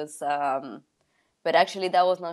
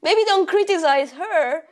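laughing quote; 12 semitones higher, 4 dB louder than usual. Retold or imitated. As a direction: talk it out through laughter. Acted advice, high, laughing.

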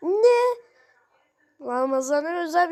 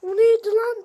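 startled yelp; 2 semitones higher, 6 dB louder than usual. Acted. Startled cry after a fall.

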